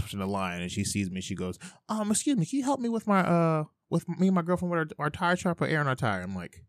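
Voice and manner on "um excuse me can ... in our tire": higher-pitched imitation of a woman; woman customer. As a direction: mimic a woman asking a favor, pitched well up. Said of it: "this woman comes in and she's like".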